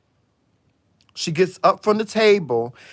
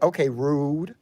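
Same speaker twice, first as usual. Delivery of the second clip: offended attitude; 3 dB quieter, slower than usual. Retold or imitated. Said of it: "She get an attitude like".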